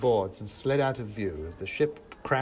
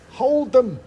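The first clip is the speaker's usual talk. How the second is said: high, loud gleeful shout; loud, exultant cry; 13 semitones higher, 12 dB louder than usual. A narrator's reading. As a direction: crow it at the top of your voice. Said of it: "said Whittington gleefully".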